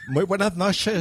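improvised mock Catalan accent; acento catalán fingido. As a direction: have a rough go at sounding Catalan. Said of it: "¿cómo, cómo sería?". (intento de acento catalán)

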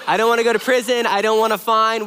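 laughing, quick and loud; laughing joke. Real, not acted. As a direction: laugh through the mock plea. Joking about going to prison.

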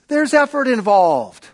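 emphatic preacher repeat; emphatic loud repeat. Shown as a demonstration. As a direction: hammer it home to the congregation.

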